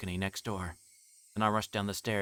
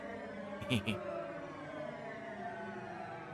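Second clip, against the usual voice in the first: breathy unvoiced laugh; 4 semitones higher, 9 dB quieter than usual. Breathy laugh, going insane.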